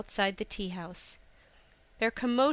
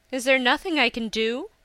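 distraught mother; 3 semitones higher, 6 dB louder than usual. Acted. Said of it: "asked Hisa's distraught mother".

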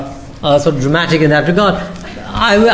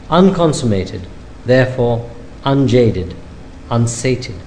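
poetry reading; 4 dB quieter than usual. Acted. Poet reads his love poem to the audience, softly measured. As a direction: let each image hang in the pauses.

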